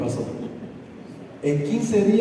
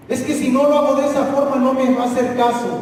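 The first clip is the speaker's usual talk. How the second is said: hurried excuse; 7 semitones higher, 3 dB louder, faster than usual. Retold or imitated. Imitating an excuse-maker.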